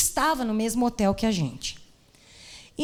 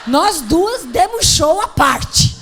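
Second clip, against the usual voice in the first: mock dramatic; 6 semitones higher, 9 dB louder, much slower than usual. Recalling screaming in turbulence.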